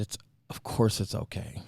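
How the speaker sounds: breathy stunned whisper; numb whisper. Retold or imitated. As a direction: barely get it out, stunned. Numb after pregnancy news.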